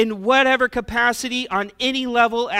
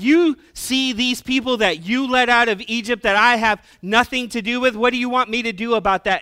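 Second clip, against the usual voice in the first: higher, exasperated protest; acted-out frustration; 4 semitones higher, 5 dB louder than usual. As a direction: throw the blame back, mock-frustrated. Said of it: "Moses was, like, frustrated".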